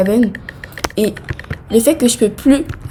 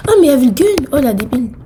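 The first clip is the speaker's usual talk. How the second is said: higher, louder realization; surprised; 5 semitones higher, 3 dB louder, faster than usual. Real, not acted. Gamer realizing the gun was there, surprised. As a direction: blurt it out in shock.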